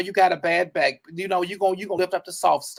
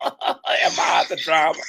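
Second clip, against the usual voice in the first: shouted drama line; slower than usual. Acted.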